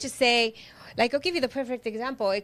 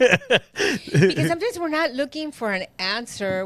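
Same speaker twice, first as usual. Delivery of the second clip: laughing; 3 semitones higher, 4 dB louder than usual. Real, not acted.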